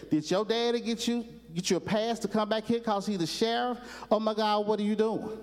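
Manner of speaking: lightly voiced thrilled country boy; excited Gomer.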